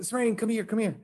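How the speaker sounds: high but soft retold call; hushed beckoning. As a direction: imitate quietly calling a child over. Father retells beckoning his daughter.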